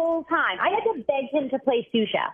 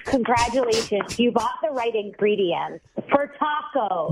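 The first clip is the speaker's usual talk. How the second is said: slow, dry sarcastic praise; mock him with fake congratulations; 2 semitones lower than usual. Real, not acted. Jenna mocks Drew for buying taco ingredients, slow and sarcastic.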